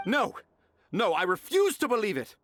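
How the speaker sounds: defiant refusal. Acted. Author refusing to believe the note's source, loudly. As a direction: refuse it outright.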